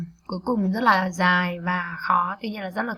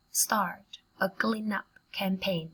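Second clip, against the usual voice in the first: slow and measured with gaps between chunks; slow, in pieces; much slower than usual. Shown as a demonstration. Teacher models a phrase for learners, slowly in pieces. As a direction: break the phrase into careful chunks.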